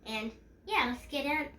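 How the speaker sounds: stuffy allergy voice; allergies. Real, not acted. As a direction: sound a bit blocked up from allergies. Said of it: "if I sound a bit off, it's because I have allergies".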